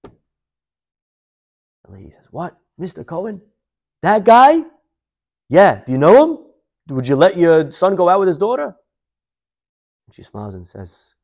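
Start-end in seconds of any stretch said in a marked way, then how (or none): 2.3-8.8 high, rising disbelief; mock-astonished questioning, pitched up; acted incredulity. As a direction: question it louder, as if testing her. Acted matchmaking call, disputed name.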